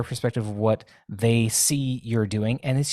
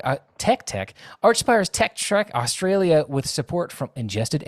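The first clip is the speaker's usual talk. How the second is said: lively mock tour-date announcement; lightly put-on announcer voice, a little lifted; radio announcer; 4 semitones higher than usual. Guest reads Australian tour dates on request in radio announcer voice. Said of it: "Do it in, in radio announcer voice".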